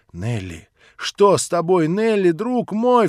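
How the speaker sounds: loud, high, worried call; alarmed cry. Acted. Narrator cries out to Nelly in alarm. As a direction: cry out her name in alarm. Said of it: "вскрикнул я невольно".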